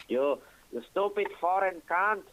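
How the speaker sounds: mock angry shout at a foreigner; imitating an aggressive local; retold insult. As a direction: spit the insult like the angry man. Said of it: "he goes like".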